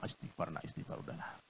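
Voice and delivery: whispered, low plea to calm down; hushed calming. Acted. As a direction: hush him gently. Mother hushes her son.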